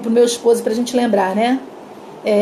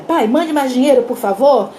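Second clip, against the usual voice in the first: annoyed reading. Retold or imitated. Father reading daughter's telegram aloud, annoyed. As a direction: read it out as a curt demand. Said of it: "o pai estourou".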